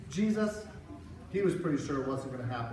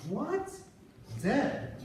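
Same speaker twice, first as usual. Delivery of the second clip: shocked; 9 semitones higher than usual. Acted. Disciples shocked at news.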